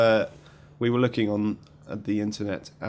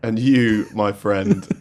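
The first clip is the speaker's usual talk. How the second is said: laughing mock taunt, louder; louder mock insult; 5 dB louder, slower than usual. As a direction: playfully jeer at the caller. Rights owner insults caller.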